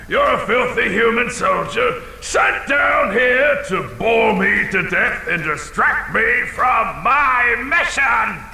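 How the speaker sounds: pin him with the accusation; triumphant accusation. Acted. Dragon accuses the thief.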